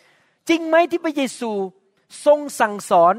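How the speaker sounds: a slow, deliberate leading question; slow probing question. Retold or imitated. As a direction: drawl the bait slowly. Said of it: "คำถามก็ถามงี้นะครับ".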